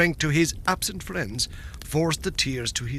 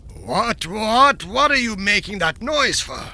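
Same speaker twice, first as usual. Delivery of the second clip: angry demand; 5 semitones higher, 3 dB louder than usual. Acted. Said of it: "demanded the king".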